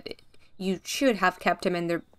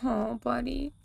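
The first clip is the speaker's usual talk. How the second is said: quiet grief; 3 semitones higher, 5 dB quieter than usual. Real, not acted. Grieving the dead dog.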